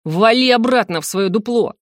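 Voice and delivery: сдержанный яростный рёв; прогони соперника, теряя терпение; Сандр. Acted. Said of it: "взревел Сандр". (сердито реветь)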